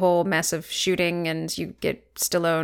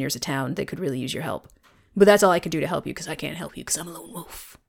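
low, gruff lone hero; lone wolf voice; 3 semitones lower, faster than usual. Retold or imitated. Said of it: "You, you wanna help us?".

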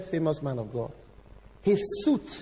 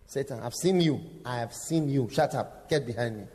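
Jesus rebuking; 5 semitones lower than usual. Retold or imitated. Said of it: "So he said".

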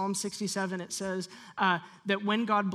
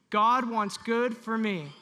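louder, slow, meaning every word; with conviction; 4 dB louder, slower than usual. Shown as a demonstration. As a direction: declare it like you mean it. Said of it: "Say it like you mean it".

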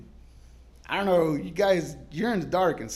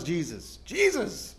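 scared plea; slower than usual. Retold or imitated. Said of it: "I'm so scared".

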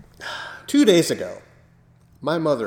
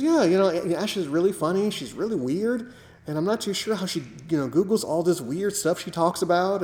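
mother's voice; 5 semitones higher than usual. Retold or imitated. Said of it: "And she goes".

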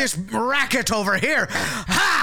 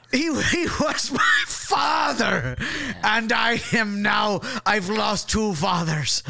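mock grief; slower than usual. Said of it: "say it like he, I was your father".

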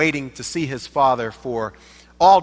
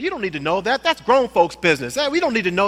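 angry father; 4 semitones higher, faster than usual. Pretend. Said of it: "the father got angry".

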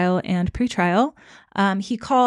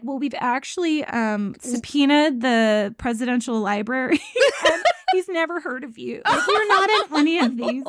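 laughing through quote; 4 semitones higher than usual. Retold or imitated. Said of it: "They're like".

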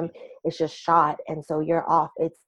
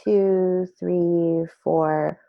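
calm, slow counting of breaths; much slower than usual. Shown as a demonstration. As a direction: guide a breathing exercise slowly. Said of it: "can I just guide you through a square breathing exercise".

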